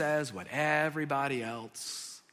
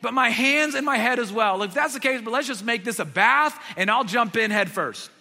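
higher, louder, all-in enthusiasm; overeager Peter; 3 semitones higher, 5 dB louder than usual. Retold or imitated. Peter begging Jesus for a full bath, overeager. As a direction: throw yourself in headfirst.

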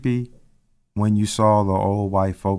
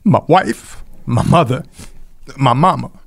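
crying from being overjoyed, pressing through it; crying with joy. Real, not acted. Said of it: "I'm crying 'cause I'm overjoyed".

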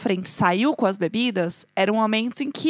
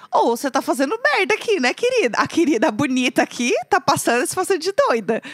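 sassy telling-off. Retold or imitated. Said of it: "essa era a energia do que eu falei".

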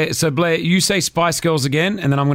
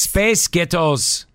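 very slow American accent; drawn-out try at an American accent; American accent attempt; 3 semitones higher, much slower than usual. Shown as a demonstration. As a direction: stretch both words out in American. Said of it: "like an American accent".

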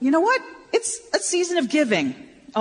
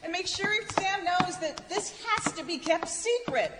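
softer, confidential warning; hushed secret; 5 semitones higher, 9 dB quieter than usual. Acted. Asks that the plan stay secret.

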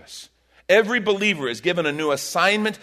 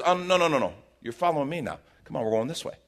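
gentle correction; faster than usual. Retold or imitated. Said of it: "And Jesus says".

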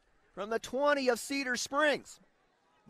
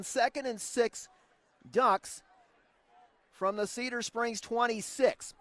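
play-by-play; 2 semitones lower than usual. Acted. Radio play-by-play.

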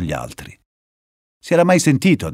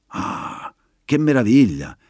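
exclaiming; 2 semitones higher, slower than usual. Acted. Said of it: "esclamò Dulce".

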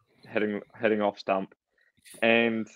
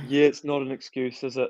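imitated meek admission; 3 semitones higher than usual. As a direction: play him agreeing sheepishly. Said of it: "And he's like".

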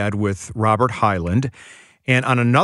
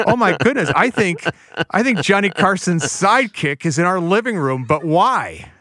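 mock astonished gasp; 6 semitones higher than usual. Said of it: "were like".

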